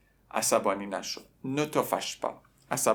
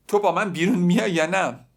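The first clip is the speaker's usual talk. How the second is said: higher, louder demand, fed up; angry boy; 5 semitones higher, 5 dB louder than usual. Retold or imitated. Teacher voices the boy losing his temper. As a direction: snap the question at her.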